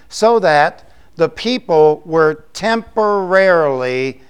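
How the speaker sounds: temporarily drawn out slowly and leaned on; stress on temporarily. Shown as a demonstration. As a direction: lean on temporarily, slow and weighty. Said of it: "with the emphasis on temporarily".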